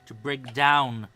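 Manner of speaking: slow, deliberate character voice listing ingredients; measured ritual expert. Acted. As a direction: lay out each requirement with weighty pauses. Game character lists ingredients with pauses.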